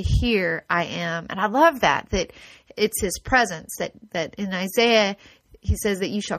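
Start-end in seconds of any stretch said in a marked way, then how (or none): 0.0-1.3 low, slow calm reply; God answering a desperate cry for help; gentle divine answer. Acted. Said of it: "he will say".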